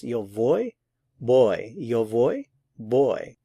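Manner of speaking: put-on soft v in "yo voy", then a hard B in "boy"; contrast soft and hard. Shown as a demonstration. Teacher contrasts the soft V with an English B. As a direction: set the soft "voy" against a firm "boy".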